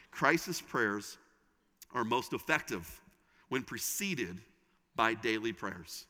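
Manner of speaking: "Crisis prayers" drawn out, pauses between phrases; slow, measured statement. Shown as a demonstration. Preacher announcing first takeaway, slow and measured with pauses. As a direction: deliver it phrase by phrase, pausing after each.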